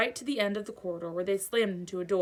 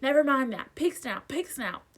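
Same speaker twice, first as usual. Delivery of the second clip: panting; 6 semitones higher, 4 dB louder than usual. A narrator's reading. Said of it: "panted Harry".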